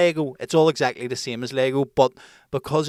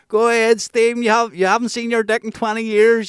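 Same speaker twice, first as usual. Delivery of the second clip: high, loud taunt yelled down from a window; mock shouting; 10 semitones higher, 8 dB louder than usual. Prisoners yelling insults down at the presenter, high and loud. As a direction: heckle him from above. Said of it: "they were shouting down".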